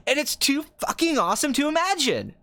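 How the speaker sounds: high-pitched, gushing film director; imitated geeky thrill, voice jumping high; Quentin Tarantino, excited. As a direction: burst out in hammed-up excitement. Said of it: "then he gets really excited".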